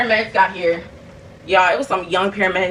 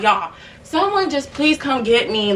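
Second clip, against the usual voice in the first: higher, drawn-out retold plea; upset pleading; 5 semitones higher, slower than usual. Fed-up sick caller begging family for help, upset pleading. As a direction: imitate begging someone to come. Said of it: "I was getting so freaking upset".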